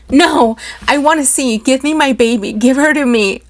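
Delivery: put-on mother crying out for her baby. A narrator's reading. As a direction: beg for the baby. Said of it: "I cried".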